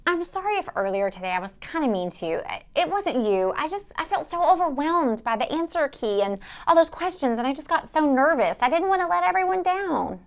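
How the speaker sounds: a touch soft and contrite; subdued apology. Acted. Host apologises to Ezra for being mean earlier, subdued apology. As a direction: confess it quietly, with mild regret.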